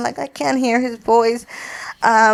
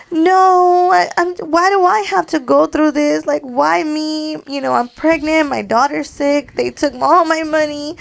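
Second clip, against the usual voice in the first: higher-pitched, mock-crying complaint; retold tearful plea; 6 semitones higher than usual. Pregnant granddaughter pouring out troubles to grandpa, imitated tearful plea. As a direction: replay a tearful outburst, pitched up, without real sobs. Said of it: "I started crying".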